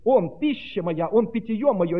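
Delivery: slow, drawn-out proclamation; exclaimed declaration. Acted. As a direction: declare each line with mounting force. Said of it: "И когда он так восклицал".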